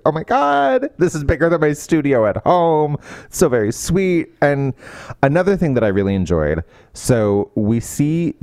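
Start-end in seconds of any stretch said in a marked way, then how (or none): 0.1-3.0 a high squeal of amazement on oh my God; delighted disbelief, pitched up; amazed. Retold or imitated. Jen seeing her new art space, amazed.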